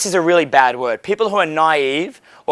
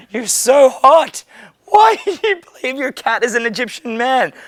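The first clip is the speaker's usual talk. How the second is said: mock flirtatious; 8 semitones higher than usual. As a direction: tease her sweetly. Mock flirt while doubting.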